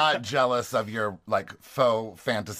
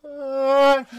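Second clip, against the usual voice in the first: high squeaky call; 13 semitones higher, 7 dB louder than usual. Acted. Show title call.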